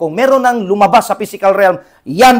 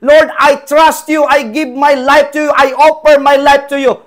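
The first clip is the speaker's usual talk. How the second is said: high, loud pleading prayer; fervent prayer; 10 semitones higher, 8 dB louder than usual. Retold or imitated. Preacher mimics believers praying to the Lord, high and loud. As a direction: pray it out like a hammed-up believer. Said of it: "marami tayo eh, nagsasabi".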